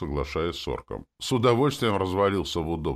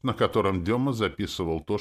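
ordinary delivery

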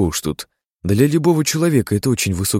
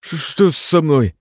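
much higher, slow and frightened; a scared patient asking; anxious; 9 semitones higher, slower than usual. A narrator's reading. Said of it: "забеспокоился Илья". (встревоженно, высоким голосом)

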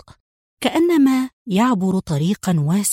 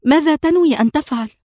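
high, louder worried question; anxious question; 9 semitones higher, 4 dB louder than usual. A narrator's reading. Mona to Adham as he leaves the car, an anxious high question. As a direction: ask anxiously, fearing his plan. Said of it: "سألته في قلق".

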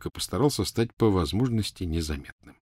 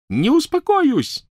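very high, drawn-out furious squeal; loud, screeching refusal; shrieking; 7 dB louder, slower than usual. Acted. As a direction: shriek it in a rage. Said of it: "завизжала она".

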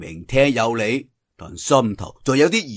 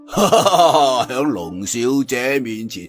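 put-on laughing old man; 3 semitones lower than usual. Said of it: "身後有人笑到噃".

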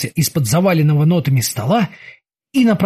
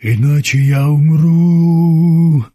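whining plea; 3 dB louder, much slower than usual. Acted. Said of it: "ныл он".

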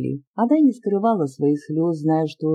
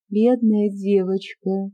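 a hint of tender pity; 3 semitones higher, slower than usual. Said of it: "ещё более нежным голосом".

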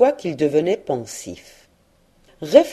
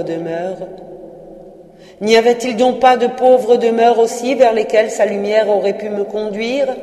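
Marley's ghost in louder, lifted lament; 2 semitones higher, 4 dB louder than usual. Acted. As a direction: preach his regret like a doomed spirit.

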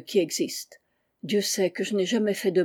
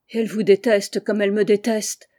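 louder, urgent outcry; exclaiming; 5 dB louder than usual. Acted. Narrator cries to Sattler, louder. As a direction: cry it out to the wounded friend. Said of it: "m'écriai-je".

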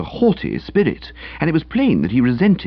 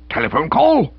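incredulous; 12 semitones higher than usual. Acted. Uncle incredulous.

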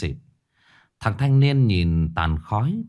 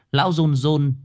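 trembling wail; 5 semitones higher than usual. A narrator's reading. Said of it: "rú lên một tiếng, nghe vô cùng thê thiết".

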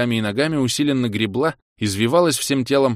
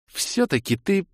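growling; 10 semitones higher, slower than usual. Acted. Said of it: "рыкнула".

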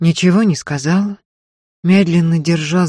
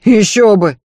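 louder indignant outburst; indignant maid, loud; 6 semitones higher, 9 dB louder than usual. Acted. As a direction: snap back, offended. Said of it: "возмутилась Марфа".

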